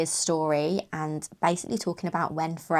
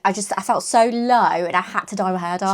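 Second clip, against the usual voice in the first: dry mock-sad complaint; deadpan fake misery, tongue in cheek; sarcastic. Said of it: "She's being sarcastic".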